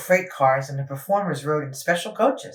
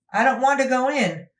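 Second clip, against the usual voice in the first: scared; 8 semitones higher than usual. Acted. Frightened engine refuses tunnel.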